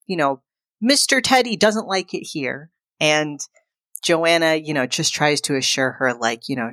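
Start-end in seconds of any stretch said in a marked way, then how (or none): 0.8-2.7 put-on lightly raised, child's worried complaint; a hint of a small kid; little girl voice. Daughter at bedtime to her mother, lightly childlike. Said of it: "she's like".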